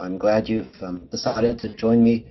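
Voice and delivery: hoarse, husky throat. Real, not acted. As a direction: talk through a husky, worn voice. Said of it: "My apologies for the husky voice".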